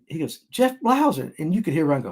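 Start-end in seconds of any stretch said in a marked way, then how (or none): 0.5-1.3 imitating a Cuban man, high-pitched; mock Cuban accent, pitched high; bad Spanish accent. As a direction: repeat it in a badly faked Spanish accent. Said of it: "I wish I could do a Spanish voice".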